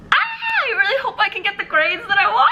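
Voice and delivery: high loud yell of stress; frustrated shout. Real, not acted. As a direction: let the stress burst out. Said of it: "stressed about grades".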